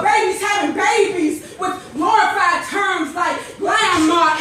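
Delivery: passionate rhythmic poem recital with a repeated refrain; spoken word poem. Acted. Poet recites his poem to the audience, with passion. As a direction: deliver it like a slam poet.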